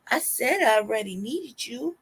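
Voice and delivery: put-on weepy hurt; sad, crying plea. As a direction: plead as if close to tears. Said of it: "All sad and shit, crying, like".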